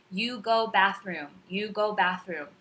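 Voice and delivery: slow, lightly mocked caveman talk; caveman English. Volunteer talking down to students, lightly mocked slow caveman English. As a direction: mildly imitate slow, disjointed baby talk. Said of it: "baby talk or caveman English".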